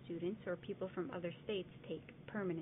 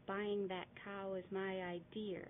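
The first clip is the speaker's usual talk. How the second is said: Boston accent. Shown as a demonstration. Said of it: "in Boston you may hear".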